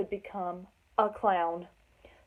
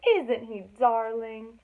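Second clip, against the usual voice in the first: excited gushing; 4 dB louder, much slower than usual. Acted. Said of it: "cried the other elephants excitedly".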